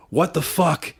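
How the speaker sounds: hammed-up disbelief as Steiner; mock angry Steiner. Promoter retelling Scott's angry reaction, mock outrage.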